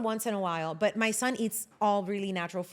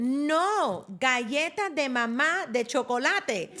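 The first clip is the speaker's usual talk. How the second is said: put-on insistent toddler; 5 semitones higher, slower than usual.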